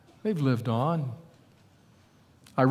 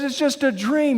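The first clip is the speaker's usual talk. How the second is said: pleading husband; 9 semitones higher than usual. Retold or imitated. Husband pleads with angry wife.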